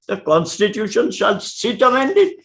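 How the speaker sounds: "shall sit amended" rising, lightly mocking; lightly incredulous, tilt "shall sit amended" upward; understated mock surprise, rising on "shall sit amended". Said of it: "in mock surprise".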